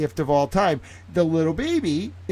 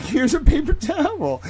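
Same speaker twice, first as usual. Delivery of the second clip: put-on much higher cooing voice for a toddler; high sing-song greeting to a baby; baby talk; 12 semitones higher, 3 dB louder than usual. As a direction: coo at the little one, pitched way up. Handing towel to toddler.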